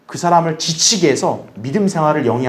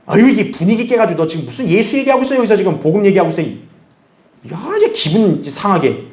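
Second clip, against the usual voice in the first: mock reproach; 3 semitones higher than usual. Old friend annoyed at gospel talk, mock reproach. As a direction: chide them in a put-on complaint, speeding up. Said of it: "옛날 친구들의 책망이에요".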